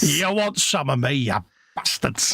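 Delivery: mock Scottish street challenge; poor Scottish accent. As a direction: put on a bad, aggressive Scottish accent. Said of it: "that poor Scottish accent there".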